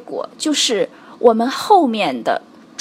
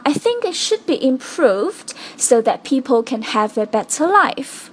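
improved stressed, then a pause, so that people run quickly; correct sentence stress. Shown as a demonstration. 老师示范重读improved并停顿. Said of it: "这里需要特别重读的是".

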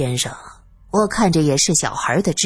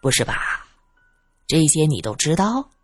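intrigued; 4 semitones lower than usual. Acted. Investigator probing the simpleton's gossip, intrigued. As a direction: ask with amused interest, keeping it low. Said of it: "罗隐饶有兴趣地问道".

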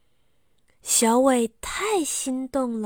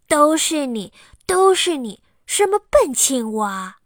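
loud, higher, furious accusing; angry blame; 5 semitones higher, 7 dB louder than usual. Acted. Xiaowei blames the frog, loud and furious. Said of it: "他很生气地对青蛙说".

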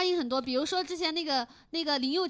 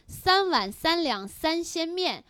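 slow and clear; 2 semitones higher, much slower than usual. Shown as a demonstration. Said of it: "他们最经典的一句话就叫".

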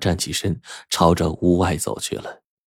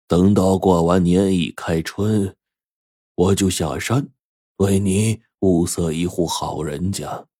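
put-on old master; slower than usual. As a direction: calmly settle her marriage, slowly. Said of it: "油灯法师对小梅说".

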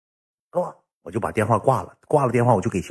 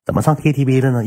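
质问; 4 semitones higher than usual. Retold or imitated. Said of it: "爱妃就说了".

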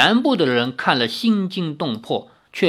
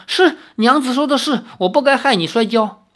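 high, eager husband giving in; meek, pleased apology; delighted submission; 6 semitones higher than usual. Acted. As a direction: agree happily while being scolded. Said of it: "却十分欢喜".

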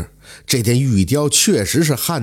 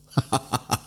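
hearty laugh; 9 dB quieter, much faster than usual. A narrator's reading. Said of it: "哈哈的大笑".

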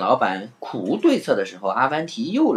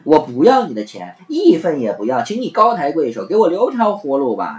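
mild begging, slowing at the end; begging for mercy; 4 semitones higher, 4 dB louder than usual. Acted. Innkeeper begging Afanti to leave, mild pleading. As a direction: plead with him to spare you. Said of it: "求饶".

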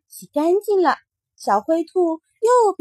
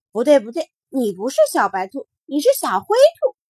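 put-on insistent child; 5 dB louder than usual. Mingming insists, denying.

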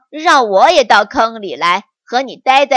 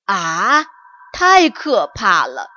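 a touch of storybook fright; understated scared tiger; terrified; 3 semitones lower, 4 dB louder than usual. Acted. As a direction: tiger mildly frightened by the news. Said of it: "老虎惊恐万状地回答说".

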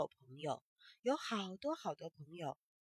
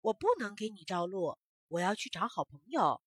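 refusing; 3 semitones lower, 4 dB louder than usual. Acted. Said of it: "萤火虫却说".

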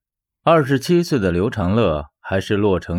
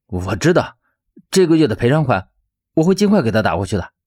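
restrained, terse irritation; suppressed anger; faster than usual. Acted. Debtor promising his director the compensation payment, suppressed anger. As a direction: hold the anger in while complying. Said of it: "压抑着怒火道".

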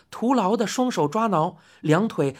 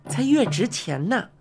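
soothing lady customer. Acted. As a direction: coax the old man kindly. Customer explains her land.

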